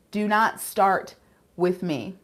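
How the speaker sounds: "Do not start with me" slowly, word by word; slow warning. Real, not acted. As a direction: stretch the warning, pausing before "with me". Repeats warning with emphasis.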